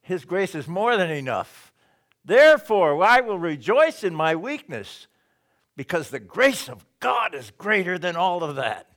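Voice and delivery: loud, high rejoicing proclamation; Paul rejoicing, loud and high; joyful declaration. Retold or imitated. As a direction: ring it out like a triumphant preacher. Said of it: "He says".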